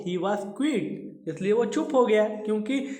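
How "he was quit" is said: slow poem reading. Shown as a demonstration. Teacher reads poem line slowly.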